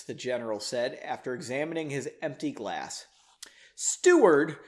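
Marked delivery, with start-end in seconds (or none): 3.8-4.6 loud call for a servant; projected, commanding call. A narrator's reading. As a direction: summon someone across the room. General calls for the steward.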